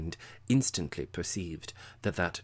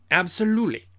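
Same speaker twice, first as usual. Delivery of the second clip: loud, high, carefully clean; without a hitch; 12 semitones higher, 12 dB louder, faster than usual. A narrator's reading. Drunk Captain pulling himself together, loud. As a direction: nail the word this time. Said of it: "without a hitch".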